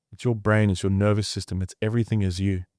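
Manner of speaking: ordinary talk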